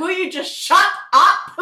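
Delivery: high, exasperated mock yell; hammed-up loud outburst; really loud. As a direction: yell it as an imitation of a fed-up colleague. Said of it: "Georgia says that really loudly".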